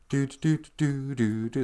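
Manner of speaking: sing-song "doo-doo" pedaling noise; pedaling sound. Retold or imitated. Telling how the old lady bikes through the tornado, imitated pedaling noise. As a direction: imitate someone pedaling along with little doos.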